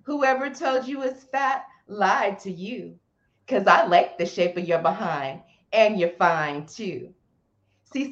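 spoken word poem recital; nervous open mic poet. Acted. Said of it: "a short poem you could say for us".

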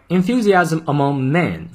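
"men" with a small mouth shape, plural; careful model reading. Shown as a demonstration. Teacher modelling plural "men" for English learners. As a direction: say "enthusiasm among men", keeping "men" tight. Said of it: "注意M E N复数，嘴型小一些".

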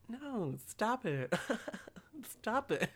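soft, slow, giggly no; coy, hushed protest broken by giggles; flirty mock refusal. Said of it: "It's flirting".

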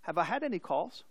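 mild, unruffled phone voice; calm. Acted. Father teasing the angry man on the phone, calm. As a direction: ask it innocently and evenly. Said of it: "The father calmly said".

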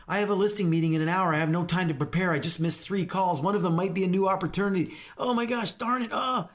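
hammed-up stressed agent; mock panic. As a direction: rattle off troubles, climbing to a high exasperated oh. Acts panicked agent while chopping.

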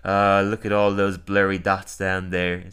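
slow, ponderous actor's voice; lightly voiced, languid grand old performer; Orson Welles. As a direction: draw it out lazily. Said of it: "it's like Orson Welles is there".

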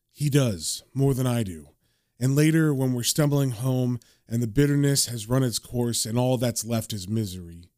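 low, subdued inner monologue; John's weary narration. Acted. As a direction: read it as a lightly voiced glum narrator. Voices John's comic narration.

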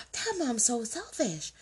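high, slow, wailing mock outrage; mock outraged passenger. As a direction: whine like a scandalised busybody on the plane. Mocking a judgmental passenger.

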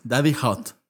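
lento y grave, seductor; Daddy Hot seductor. Shown as a demonstration. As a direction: dilo despacio, sensual. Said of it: "bilingüe". (Daddy Hot lento y sensual)

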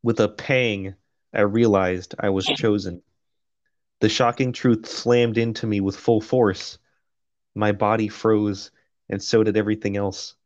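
measured, even audiobook read; steady first-person narration; story narration. A narrator's reading. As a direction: read it out like a novel. Reads the novel aloud.

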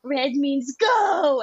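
put-on high, slow babyish voice. Dad doing a baby character in the car, high baby voice. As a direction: play a clueless baby in a high voice. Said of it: "And then he'd be like".

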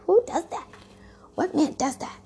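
incredulous. Retold or imitated. Offended, retelling her inner reaction.

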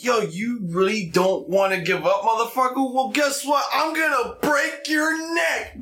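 building to a shout; rising from plain to a yelled threat; mock angry threat. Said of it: "it's like".

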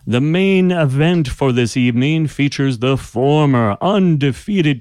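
booming arena announcer, high and loud; magically amplified voice. Acted. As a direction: boom it out like a magic fight herald. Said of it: "magically amplified voice booming down the corridor".

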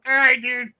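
retold sarcastic send-off. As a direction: push back at him, voice lifted. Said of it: "he, like, raised his voice".

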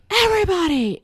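high, loud mock announcement to a crowd; little boy calling out. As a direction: imitate a child hollering for attention. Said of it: "he's like".

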